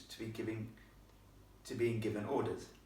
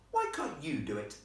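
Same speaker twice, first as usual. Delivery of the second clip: put-on slightly raised, challenging girl's voice; mildly defiant retort; 4 semitones higher than usual. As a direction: challenge him back as a posh girl. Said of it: "she said defiantly".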